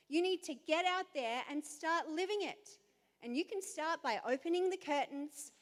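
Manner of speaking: lightly voiced firm mother; a touch of a stern mum; mum's straight talk. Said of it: "She said to me".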